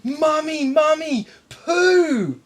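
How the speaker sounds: put-on high, loud squeal of a little kid; Mummy Mummy poo, yelled high and loud; excited child yell. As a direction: shriek it like an excited four-year-old. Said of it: "yells out top of her lungs".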